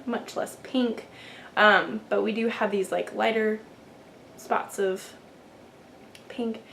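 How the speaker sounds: ordinary delivery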